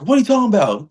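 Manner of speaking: high-pitched indignant retort; mock attitude. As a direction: imitate someone giving attitude. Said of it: "he was trying to give me attitude".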